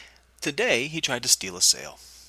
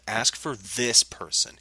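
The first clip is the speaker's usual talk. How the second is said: slow, deliberate stress on "this person"; very specific; slower than usual. Retold or imitated. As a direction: spell out "Ask for this person" slowly and pointedly. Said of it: "which I named very specifically".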